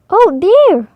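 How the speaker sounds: high, loud alarmed cry; panicked goose. A narrator's reading. The goose cries out in fright at the fox, high and loud. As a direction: squawk it in fright.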